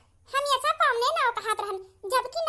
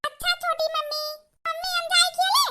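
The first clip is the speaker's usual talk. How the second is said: put-on higher, pleading little girl; child's voice; 4 semitones higher than usual. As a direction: ask like a small child begging to play. Child asks mother to play. (छोटी बच्ची की आवाज़)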